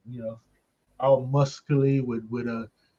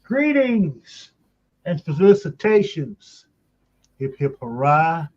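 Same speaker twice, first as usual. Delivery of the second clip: hearty booming country squire; 2 semitones higher, 3 dB louder than usual. Acted. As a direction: boom it like a jolly old squire. Host's hammed-up show opening.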